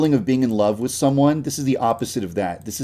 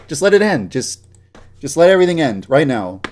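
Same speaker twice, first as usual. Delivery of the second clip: hammed-up despair; 3 semitones higher, 6 dB louder than usual. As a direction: overplay the despair as a joke. Melodramatic despair over polygons.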